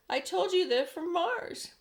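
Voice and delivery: high, loud and slow told-you-so; triumphant police chief. A narrator's reading. Police chief crowing triumphantly to the fire chief. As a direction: crow that you were right. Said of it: "cried the chief of police".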